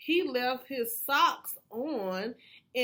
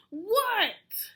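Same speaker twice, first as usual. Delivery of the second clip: higher, louder yell back; Froggy answering his mother a third time; 7 semitones higher, 3 dB louder than usual. A narrator's reading. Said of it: "yelled Froggy".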